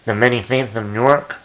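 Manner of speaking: Newark said as Nork in a New Jersey accent; New Jersey accent on Newark, like his roots. Shown as a demonstration. Fan recalling Ray Liotta's mob film, New Jersey accent. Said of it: "That was a good accent".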